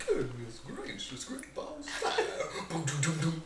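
fire-loving character voice. Acted. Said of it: "Think fireballs and humans".

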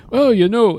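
lightly put-on Jewish accent; a hint of an old Jewish comic accent. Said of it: "quite a Jewish voice".

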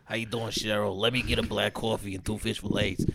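diner regular ordering. Acted. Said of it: "he goes into a diner and just order".

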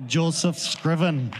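slow attempt at an Irish accent. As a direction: echo the name slowly, trying an Irish accent. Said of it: "in an Irish accent for me".

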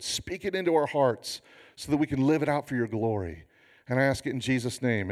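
low, measured pastoral prayer; earnest prayer. Real, not acted. Pastor asking God to change the congregation, earnest prayer. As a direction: pray it sincerely, a little subdued. Prays before the message.

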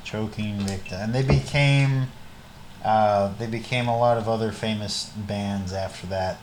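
low-energy, low and soft plug; unenthusiastic. Real, not acted. Recommending a band to the co-hosts, unenthusiastic. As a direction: talk up a band with no enthusiasm at all. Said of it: "you sound so enthusiastic".

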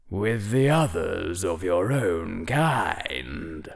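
put-on heavy, solemn old hat, slowing at the end; whispery telepathic voice. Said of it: "The hat's telepathic voice grew heavy".

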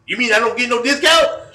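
high, loud put-on Black American accent, laughing through it; Ebonics imitation. Prank caller asking the store manager about discounts, hammed-up high, loud Black American accent. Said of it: "Ebonics imitation".

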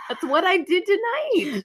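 high, slow words through laughter; laughing. Real, not acted. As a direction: laugh while you say it. Laughing at cohost's suggestion.

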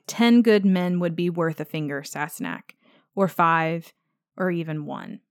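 a touch of drowsy, halting; mildly woozy. Retold or imitated. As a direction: lightly play him drifting off, with pauses. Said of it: "wobbly at this point".

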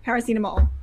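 Paracetamol with French vowels, stress on the last syllable; French-accented paracetamol. Retold or imitated. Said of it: "as soon as I put a French accent on".

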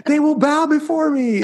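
put-on high, grandiose boasting kid; booming demon lord. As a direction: proclaim it like a conquering king. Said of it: "because he goes".

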